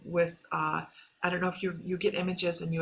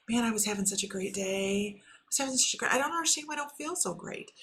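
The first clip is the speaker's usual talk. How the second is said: higher-pitched puzzled complaint, climbing as it goes; let-down mock lament; 5 semitones higher than usual. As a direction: voice a bewildered inner grumble, rising higher. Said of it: "up and down their emotions and get depression".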